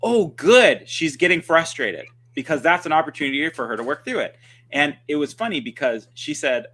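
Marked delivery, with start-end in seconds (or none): 0.0-4.4 bright upbeat Oh, good, high and loud; pleased, welcoming take on frustration; cheerful reframe. Shown as a demonstration. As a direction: say it like good news. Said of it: "But what I want you to say is".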